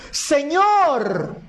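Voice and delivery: high, drawn-out call; crying out. Acted. Blind men hear Jesus passing, crying out. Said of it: "le gritaron diciendo".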